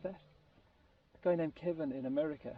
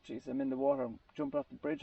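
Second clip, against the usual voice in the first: high, panicked retold quote; 11 semitones higher than usual. Man in the water retelling his fear, high and frightened. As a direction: let the voice jump up in imitated panic. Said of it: "he said".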